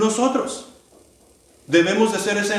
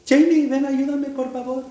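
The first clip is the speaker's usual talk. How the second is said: calling for help; 5 semitones higher than usual. Acted.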